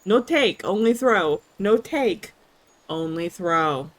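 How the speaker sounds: dog voice. Retold or imitated. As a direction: whine it like a pushy dog. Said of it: "a dog is like".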